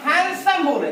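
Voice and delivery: हैंडसम said as hansom, d dropped; d silent. Shown as a demonstration. Teacher modelling हैंडसम for students, silent d. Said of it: "हैंडसम बोला जाता है".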